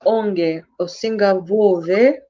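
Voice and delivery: Manyanga accent. Real, not acted. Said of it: "You sound like Manyanga".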